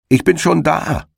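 a high smug call down the field. Acted. Hedgehog greeting the arriving hare with a high smug call. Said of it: "rief ihm der Herr Igel entgegen".

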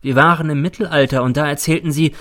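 a hint of a ghostly boy accusing his teacher; the dead boy N. Dead pupil reproaches his teacher, lightly voiced boy. N speaks again.

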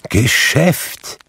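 ghost's high, loud exclamation; ausrufend. A narrator's reading. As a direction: cry the word out, rising. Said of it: "rief das Gespenst". (aufgebracht ausgerufen)

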